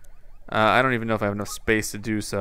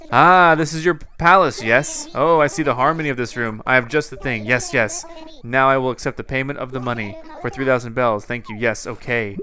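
a hint of a ceremonious carpet seller; lightly voiced Sahara; 3 dB louder than usual. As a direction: start big and admiring, then settle into business. Voices Sahara inspecting the room.

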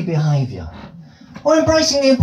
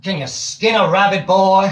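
southern drawl. Retold or imitated. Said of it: "Southern States drawl".

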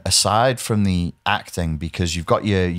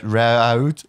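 road with a rounded Wirral O; Wirral accent. Retold or imitated. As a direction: imitate the dispatcher's road. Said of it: "and then he goes".

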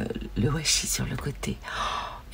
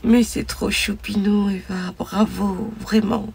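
higher, louder and slowed, gushing; gushing delight; 5 semitones higher, 7 dB louder, slower than usual. Real, not acted. Gushing to Eva over her cute gift, delighted. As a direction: coo over how cute it is.

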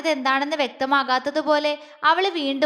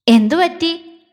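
mischievous tease; 4 semitones higher, 9 dB louder, slower than usual. Acted. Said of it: "അവൻ കുറുമ്പോടെ ചോദിച്ചു".

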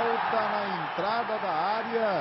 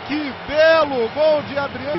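explosive goal commentary; 3 semitones higher, 9 dB louder than usual. Real, not acted. Celebrating the goal.

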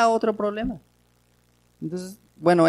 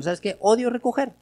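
sincere; 6 semitones higher than usual. Retold or imitated. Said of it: "Es honesto, es franco".

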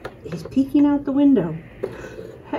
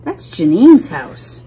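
low answering voice; 10 semitones lower, 5 dB louder than usual. Pretend.

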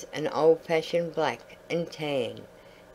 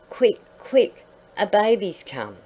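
much higher and louder, eager news; excited call; 4 semitones higher, 4 dB louder than usual. A narrator's reading. Word passed to far dogs.

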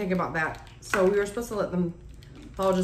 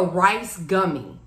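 talking between bites; chewing while talking; 3 semitones lower than usual. Real, not acted. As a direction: mouth full of mochi. Seen 1: Speaker holds bitten mochi, mouth closed and chewing between short remarks.

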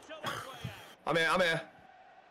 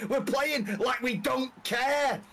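angry scolding; slower than usual. Real, not acted. Player scolding team.

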